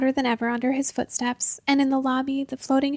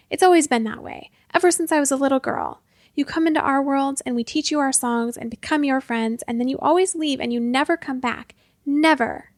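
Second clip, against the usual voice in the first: angry shouting; 3 dB louder than usual. Acted. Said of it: "she yelled at him".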